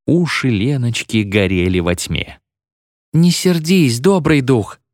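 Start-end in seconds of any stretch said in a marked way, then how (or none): 3.1-4.8 high, imploring voice; anxious little plea, pitched up; pleading. A narrator's reading. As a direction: beg the spirit not to be cross. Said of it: "взмолилась она".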